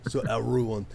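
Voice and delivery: a light hint of a Gerard Depardieu French accent; a lightly French, weary plea to go to sleep; Depardieu-ish French. Craucus urging everyone to sleep, with a hint of French accent. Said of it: "a little bit of Gerard Depardieu happening in that voice".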